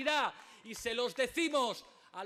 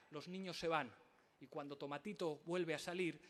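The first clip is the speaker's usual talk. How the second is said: quiet storytelling; 8 semitones lower, 9 dB quieter than usual. Real, not acted. Soft, intimate anecdote within rally speech.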